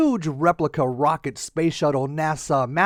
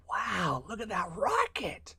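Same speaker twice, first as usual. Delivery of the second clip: tiny bird voices; 13 dB quieter than usual. Acted. Passing birds marvel.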